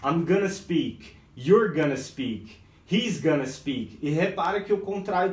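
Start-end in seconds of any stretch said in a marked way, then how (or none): 0.0-4.0 each "gonna" drawn out slowly; slow drill of examples; slow demo. Shown as a demonstration. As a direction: model the pattern slowly. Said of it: "as pessoas acabam falando".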